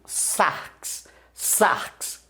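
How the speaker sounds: sarx said softly with a hissed final x, nearly unvoiced; Greek word sarx. Shown as a demonstration. Teacher showing students the Greek word sarx, voiced softly. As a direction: breathe out sarx, ending in a soft ks. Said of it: "Por exemplo".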